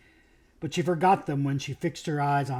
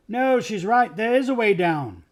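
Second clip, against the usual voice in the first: calling out; 6 semitones higher, 5 dB louder than usual. Acted. Edmund calling out, backing Lucy.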